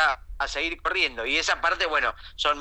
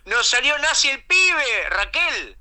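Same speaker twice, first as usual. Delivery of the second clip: father voice; 7 semitones higher, slower than usual. Retold or imitated. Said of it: "Y el padre dice".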